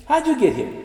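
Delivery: high, incredulous question; mock puzzled asker. Colleagues quizzing Dean, high and incredulous. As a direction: voice the confused colleague.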